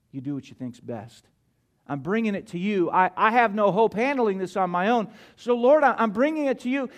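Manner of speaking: surrendering prayer. Acted. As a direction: lay the burden down gently, then commit. Preacher voices a surrendering prayer.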